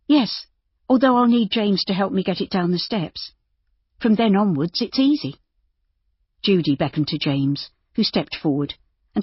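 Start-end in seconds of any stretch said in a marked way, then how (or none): 0.1-5.4 put-on young woman voice. Narrator voices Judy.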